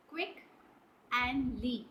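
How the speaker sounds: Quick, pause, then lee, each syllable apart; split into syllables. Shown as a demonstration. Teacher to children, counting syllables, split syllable by syllable. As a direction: break the word into its two beats for the class. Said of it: "see the syllables".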